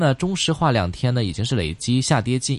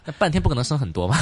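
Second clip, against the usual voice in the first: laughing; 6 semitones higher, much faster than usual. Real, not acted. Host jokes about half day.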